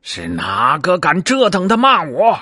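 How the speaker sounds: high, shrill-pitched furious demand; Monkey King hearing the insults, enraged; raging outburst. A narrator's reading. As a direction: explode with outrage. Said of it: "暴跳如雷".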